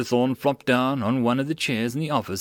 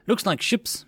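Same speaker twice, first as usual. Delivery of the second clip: moaning; 9 semitones higher than usual. A narrator's reading. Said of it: "Blue Thunder moaned".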